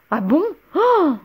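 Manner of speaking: a preening, delighted witch; coy witch squeal; flattered squeal. A narrator's reading. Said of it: "fit-elle en se trémoussant".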